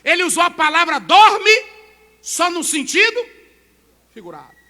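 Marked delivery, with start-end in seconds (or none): 0.0-3.2 higher and louder, urgent; forceful preaching. Acted. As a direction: drive the point home. Preaching raised.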